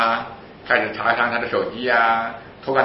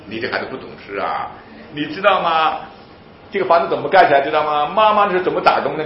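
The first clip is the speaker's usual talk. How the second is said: nagging mother; 3 semitones higher, 5 dB louder than usual. Retold or imitated. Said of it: "唠叨".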